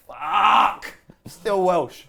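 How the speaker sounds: loud, high mock despair; mock anguished outburst. Friend imitates Bale's morning despair, mock loud wail. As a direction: wail it like waking up still Welsh. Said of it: "Gareth Bale wakes up every morning going".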